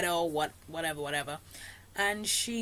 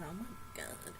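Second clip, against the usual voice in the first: shocked gasp; 13 dB quieter than usual. Retold or imitated. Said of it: "I was like".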